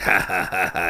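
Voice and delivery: low mock "ha ha" chuckle; mock villain laugh. Wolf gloating over the captives in his cage, mock villain laugh.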